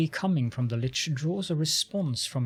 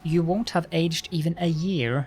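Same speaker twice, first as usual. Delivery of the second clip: arrogant lich voice. Acted. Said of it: "Arrogance rings in the lich's voice".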